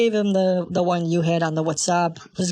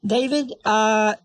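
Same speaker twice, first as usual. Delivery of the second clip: calling out; 6 dB louder than usual. Real, not acted. Calling to David after payment.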